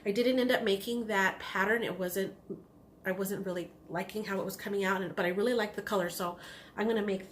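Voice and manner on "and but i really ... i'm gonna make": talking through hiccups; hiccupping mid-sentence. Real, not acted. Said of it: "got the hiccups".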